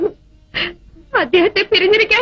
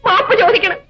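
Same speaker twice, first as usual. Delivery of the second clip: tearful plea. Acted. Daughter begging to ask his forgiveness, tearful. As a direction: plead through tears. Daughter begs to see him.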